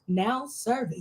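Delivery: flat, bored counter clerk calling next; weary clerk droning the next number; DMV clerk voice. Acted. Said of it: "in my best D M, D M V voice".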